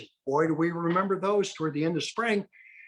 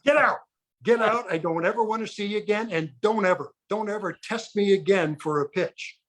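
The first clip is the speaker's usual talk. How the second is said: hammed-up order to get out, half laughing; mock furious; 4 semitones higher than usual. Furious umpire throws him out.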